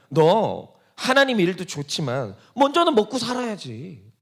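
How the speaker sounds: slow, reasonable-sounding tempter's coax; Satan coaxing. Retold or imitated. Satan advising the believer to eat first, slow coaxing. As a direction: lay it out slowly like friendly advice. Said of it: "그러면서 하는 말이 뭡니까?".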